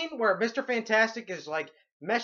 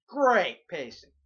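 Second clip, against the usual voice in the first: slow sarcasm; slower than usual. Shown as a demonstration.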